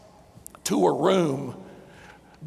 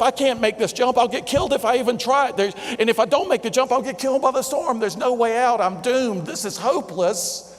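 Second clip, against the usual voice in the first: negative self-talk; 3 semitones higher than usual. Acted. Stranded climber talking himself out of the jump, mildly despairing. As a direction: act out a touch of hopeless doom. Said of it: "engaged in negative self-talk".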